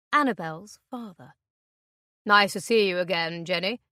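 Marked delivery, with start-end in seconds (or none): 2.2-3.8 falsely cheerful man. Acted. Intruder greets with false friendliness.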